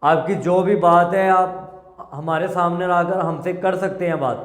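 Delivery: loud pleading. Real, not acted. Pleading aloud to spirit.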